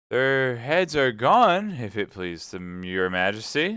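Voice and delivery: loud, slow, drawn-out call; shouted reply. Acted. Soldier reporting to the queen, shouted reply. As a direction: call it back up high, then ease off. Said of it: "the soldier shouted in reply".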